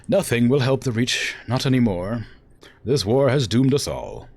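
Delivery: lightly acted grave pronouncement; understated theatrical gloom; defeated ruler's lament. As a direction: declare doom, then let it sink. Acts a doom-laden ruler.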